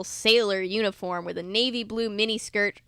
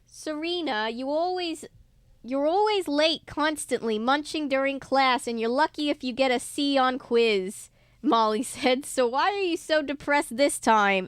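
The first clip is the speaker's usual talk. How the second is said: a light, hammed-up New Jersey accent, a bit higher; Molly teasing Serena in a mock New Jersey accent; bad New Jersey accent; 4 semitones higher than usual. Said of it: "attempt to do the accent that they give her".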